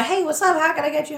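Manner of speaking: high, eager customer-service voice; bright over-the-top welcome to a customer; chirpy shop greeting pitched high; bubbly budtender greeting. Retold or imitated. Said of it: "I just wanna get a couple things and go".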